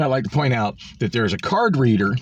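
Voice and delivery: usual speaking voice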